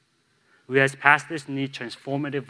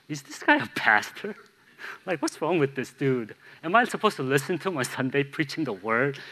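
doubting churchgoer; 3 semitones higher than usual. Retold or imitated. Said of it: "you'll wonder".

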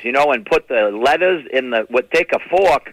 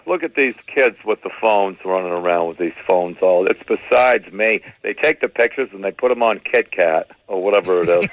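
lower, raspy smoker aunt griping; Aunt Teresa yelling; 8 semitones lower than usual. Retold or imitated. Chain-smoking aunt complaining about kids' phones, lower. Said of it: "She'll be over there yelling".

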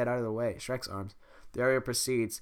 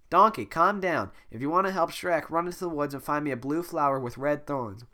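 calm princess; 4 semitones higher, 4 dB louder than usual. Acted. Fiona instructing Donkey.

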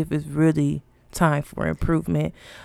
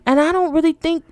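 exasperated rant; 9 semitones higher than usual. Real, not acted. Ranting at companies.

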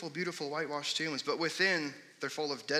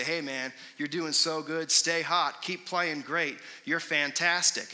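mock dugout cheering, a bit louder; sarcastic praise; 2 semitones higher, 4 dB louder, slower than usual. Teammates ribbing an error-prone player, sarcastic cheer. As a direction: fake encouragement to a teammate who played awful. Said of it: "just douse them with sarcasm".

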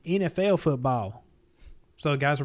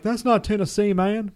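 loud, high Tennessee drawl quote; fan's East Tennessee accent; 8 semitones higher, 5 dB louder, slower than usual. Retold or imitated. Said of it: "Your, your East Tennessee accent's pretty good".

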